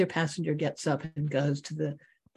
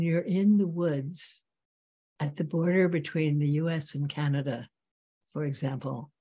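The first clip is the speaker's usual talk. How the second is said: guided meditation. Real, not acted. Teacher bringing students back to the breath, guided meditation. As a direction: guide them gently inward, leaving long silences.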